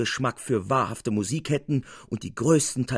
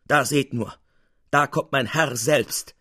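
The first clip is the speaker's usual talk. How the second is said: proud announcement; 5 dB louder than usual. Acted. Capuzzi proudly announcing his master's entrance, louder. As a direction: present him with a flourish.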